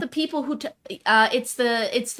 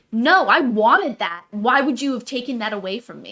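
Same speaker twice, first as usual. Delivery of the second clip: pathos; 2 semitones higher, 4 dB louder than usual. Retold or imitated. Co-host imitates Hester protesting to Tom, mock pathos. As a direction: plead it in imitation of a wronged heroine. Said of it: "pathos of her being like".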